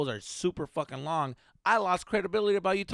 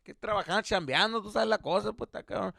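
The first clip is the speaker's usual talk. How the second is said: raised-pitch comic neighbor voice; paisa neighbor venting; 5 semitones higher than usual. Retold or imitated. Paisa neighbor venting to dad about his son, higher-pitched. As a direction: complain on and on in a higher voice. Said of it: "the guy's just like".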